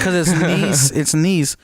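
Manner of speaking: niche said "neece"; long-ee pronunciation. Shown as a demonstration. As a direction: say niche almost like niece. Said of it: "Is it niche or niche?".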